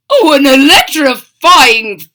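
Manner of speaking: excited storyteller. Acted. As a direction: gush with delight.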